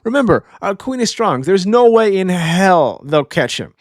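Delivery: high, slow, drawn-out cool skeleton voice; laid-back high voice, slowly reassuring the king; Brooke voice. Retold or imitated. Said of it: "Brooke's like".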